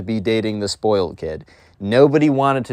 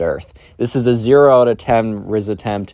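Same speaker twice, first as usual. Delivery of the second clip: ordinary talk, nothing marked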